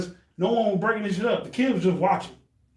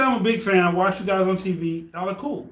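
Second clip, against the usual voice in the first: eager fan greeting. Shown as a demonstration. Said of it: "Just say".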